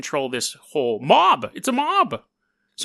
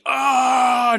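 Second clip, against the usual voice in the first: mock pained cry; 5 semitones higher than usual. Acting king handed red hot scepter.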